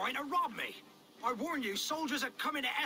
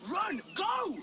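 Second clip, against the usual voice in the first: higher, louder panicked cry; 7 semitones higher, 4 dB louder than usual. Acted. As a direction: bolt away in fright. Merchant flees in panic.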